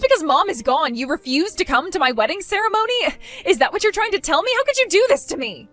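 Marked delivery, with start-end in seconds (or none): 3.5-5.7 higher, wounded indignant cry; indignant whine. Acted. Bride accuses sister of skipping her wedding, higher indignant whine. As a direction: wail it like she's the victim.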